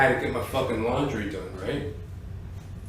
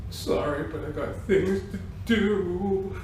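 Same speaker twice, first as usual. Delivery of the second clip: deadpan apology; 4 semitones higher, 6 dB quieter than usual. Retold or imitated. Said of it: "deadpanly put the coins".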